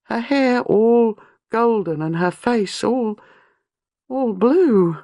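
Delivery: high, slow, shaken telling; young wife recounting a vision of murder, high and shaken; horrified recollection. A narrator's reading. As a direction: relive the horror, voice climbing. Horror recalled, high pitch.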